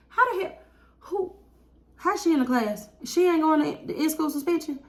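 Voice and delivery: high, laughing disbelief; can't believe it, laugh it out; incredulous laugh. Real, not acted. Teacher back from meeting, shocked laughing disbelief. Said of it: "I was so mad".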